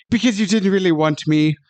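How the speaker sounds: lightly mocked little wiener voice; Kevin Costner. Host mocking the Mariner's bad line, wiener voice. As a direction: imitate a wimpy line with an odd accent. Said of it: "got this little wiener voice".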